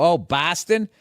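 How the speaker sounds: rising Midwest accent imitation. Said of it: "that's how people from the Midwest say it".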